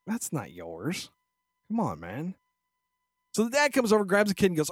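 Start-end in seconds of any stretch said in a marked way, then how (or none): 0.1-2.4 put-on low, slow, mumbled kid voice; a kid too slow to speak up, low and lazy; imitating a kid. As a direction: drag it out like a dim little kid. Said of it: "wasn't even smart enough to go".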